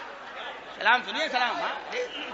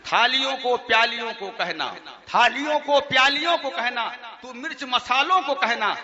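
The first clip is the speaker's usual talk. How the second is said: chanted verse through chuckles; mocking the verses for the audience; mock poem recitation; 2 semitones higher than usual. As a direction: recite it teasingly, laughing a little. Recites mocked salaam verses.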